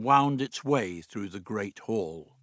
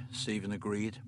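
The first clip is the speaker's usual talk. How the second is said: ordinary delivery, nothing marked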